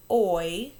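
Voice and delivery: "oi" held as a lone vowel glide, loud; isolated oi sound. Shown as a demonstration. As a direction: sound out "oi" loudly on its own. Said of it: "for the sound".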